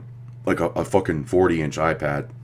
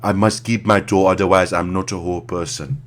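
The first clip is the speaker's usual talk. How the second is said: mock African accent; 3 semitones higher than usual. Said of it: "And he's like".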